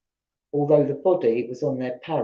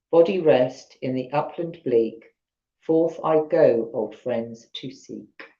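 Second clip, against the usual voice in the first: put-on Yorkshire accent; 2 semitones lower than usual. Reading the moorland grave poem to listeners, in a Yorkshire accent. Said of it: "attempt at the Yorkshire accent".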